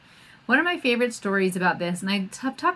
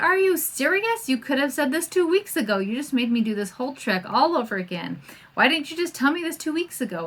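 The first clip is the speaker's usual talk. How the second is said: higher, indignant retelling of the mother; exasperated mother; 4 semitones higher than usual. Retold or imitated. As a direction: play her fed up after the long trek. Mother annoyed at the monk.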